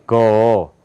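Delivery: low "가기구개고", each syllable long and apart; American-style syllables. Shown as a demonstration. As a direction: model "가기구개고" from the throat for students. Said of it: "저하고 미국식으로".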